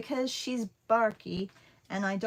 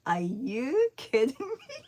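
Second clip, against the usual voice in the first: higher, louder disbelief tipping into a laugh; half laughing; 4 semitones higher, 5 dB louder than usual. Retold or imitated. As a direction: say it out loud, incredulous, half laughing. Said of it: "kind of half laughing".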